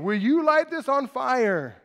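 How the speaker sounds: mildly wailing plea; retold wailing. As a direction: cry out slowly, half-acting a wail. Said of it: "wailing, crying out to Baal".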